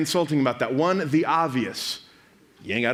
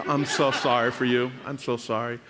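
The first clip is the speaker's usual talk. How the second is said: low voice, fading softer; mock consoling; 7 semitones lower, 3 dB quieter than usual. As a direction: offer hushed, playful sympathy. Consoles the imagined crying person.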